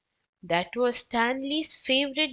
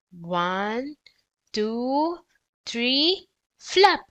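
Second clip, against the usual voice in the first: calling out, building; 2 semitones higher, much slower than usual. Acted. Arthur counts the boys into flapping, rising call. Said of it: "Arthur called".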